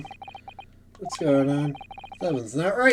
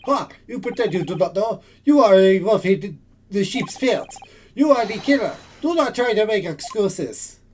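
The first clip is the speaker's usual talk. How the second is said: louder, higher indignant accusation; accusing; 4 semitones higher, 4 dB louder than usual. Acted. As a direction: corner him with the charge. Susato accuses the hero.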